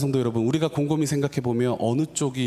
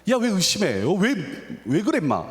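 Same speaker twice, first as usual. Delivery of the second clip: higher-pitched imitation of a telling-off; mock scolding; 7 semitones higher than usual. Preacher imitates Jesus telling off Peter for doubting, mock scolding. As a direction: act out an exasperated scolding. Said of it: "막 베드로를 혼내는 거죠".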